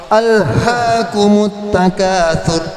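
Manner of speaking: slow "alhaakumut takatsur" with a released "h"; overdone breathy h. Shown as a demonstration. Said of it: "ada yang begitu, banyak". ("alhaakumut takatsur" dengan h dilepas berlebihan)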